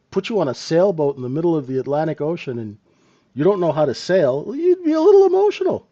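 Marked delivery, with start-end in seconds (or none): 4.4-5.9 much higher, fast and squeaky; teasing punchline in a high cartoon voice; mock squeaky voice. Joking punchline about a stranded sailor.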